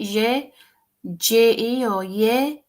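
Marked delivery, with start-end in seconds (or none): 1.2-2.6 "J E or ye?" said slowly, letters then "ye"; slowly compare "J E" with "ye"; slow careful "J E or ye?"; weighing pronunciations. Shown as a demonstration. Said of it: "Is that how you pronounce it?".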